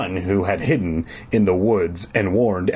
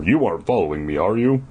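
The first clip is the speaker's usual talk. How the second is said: teasing; faster than usual. Acted. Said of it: "The first counselor teased".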